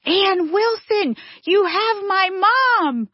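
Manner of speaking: high-pitched, drawn-out mock yell; retold yell. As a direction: imitate a man crying out in astonished relief. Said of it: "and he yells".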